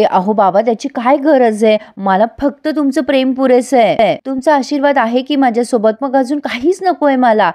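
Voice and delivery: put-on innocence. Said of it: "Priya acting करते".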